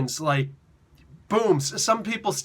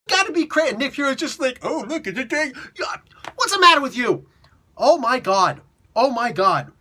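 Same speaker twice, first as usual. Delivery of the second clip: loud, high mock outrage; hyper disbelief; 7 semitones higher, 5 dB louder than usual. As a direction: exclaim it like an over-the-top freak-out. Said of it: "getting like, really hyper".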